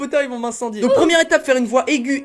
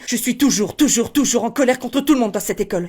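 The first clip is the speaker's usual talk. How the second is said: thin voice, a touch quicker; rapid thin voice. Shown as a demonstration. Teacher adding step two, thin hurried voice. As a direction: hurry the words along in a thin voice. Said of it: "vous rajoutez la rapidité".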